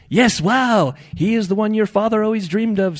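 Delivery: high, loud, fervent little voice; talking shrimp. A narrator's reading. Shrimp tells Ed of his father's dream, proclaiming. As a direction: herald it as a tiny prophet. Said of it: "said one shrimp".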